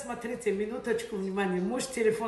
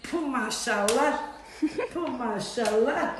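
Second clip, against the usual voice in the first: laughing amazed. Real, not acted. Amazed at the money.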